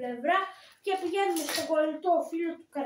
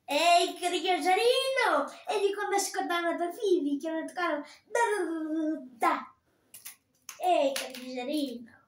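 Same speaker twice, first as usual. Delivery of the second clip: Jewish puppet character's voice. Shown as a demonstration. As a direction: call out like the puppet merchant. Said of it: "τον Εβραίο". (δυνατή, αργή φωνή του Εβραίου)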